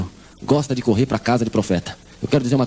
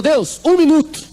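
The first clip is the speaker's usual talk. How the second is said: high, loud and very slow; slow loud demand; 12 semitones higher, 3 dB louder, much slower than usual. Retold or imitated. Mother at the door telling God one minute, slow and loud. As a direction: stretch each word out as a loud demand.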